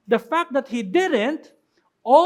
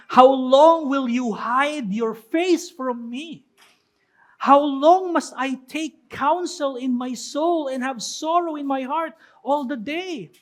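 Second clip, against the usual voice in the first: slow, louder, solemn psalm reading; scripture reading; 3 dB louder than usual. Acted. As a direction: proclaim the lament slowly. Reads psalm aloud with force. (mabagal at malakas na pagbasa ng Salmo)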